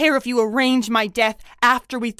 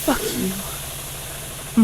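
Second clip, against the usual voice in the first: muttered retort; 4 semitones lower, 8 dB quieter than usual. Acted. Muttered retort after the villain leaves.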